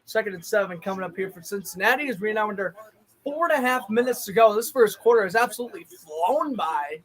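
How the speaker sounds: quick, even broadcast call; brisk play-by-play. Acted. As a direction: run through the down like an announcer.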